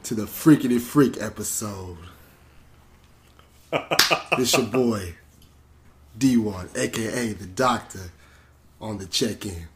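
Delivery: put-on smooth, sexy announcer; sexy host voice. Podcast host opening the freak episode, in a playful sexy voice. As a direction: ease into a mock-seductive radio voice. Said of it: "I don't even know why I'm talking like this".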